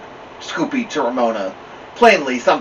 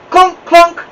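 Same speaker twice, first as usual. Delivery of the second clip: high, loud happy shout; 10 dB louder than usual. A narrator's reading. Little Ramona shouting happily about going out. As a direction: shout it out gleefully like a little kid. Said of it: "shouted Ramona happily".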